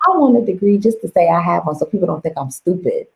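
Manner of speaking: smug, half-whispered plan; retold teen self-talk, breezy and smug; cocky inner voice. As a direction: toss it off like it's easy. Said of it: "'cause I was like".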